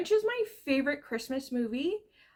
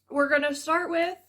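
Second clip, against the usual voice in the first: out of breath; 3 semitones higher, 4 dB louder than usual. Real, not acted. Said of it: "now I'm so out of breath".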